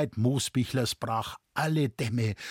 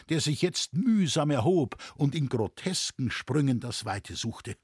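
usual speaking voice

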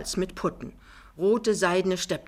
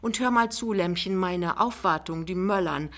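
put-on raised-pitch, managing older lady; lightly voiced mother-in-law, brisk; 5 semitones higher than usual. Mother brushes off son and instructs Lämmchen, brisk. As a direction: retort smoothly and move on to orders.

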